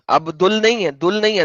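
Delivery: نہیں pressed with a falling tune; stress on نہیں. Shown as a demonstration. Correcting his friend, leaning on نہیں. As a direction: lean on نہیں, not دل. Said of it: "دال کے اوپر پیش نہیں ہے".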